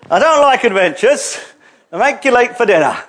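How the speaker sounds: lightly voiced grumbling little hobbit; a touch of hobbit fussiness; mock reluctant hobbit. Mimics reluctant hobbit-like listeners.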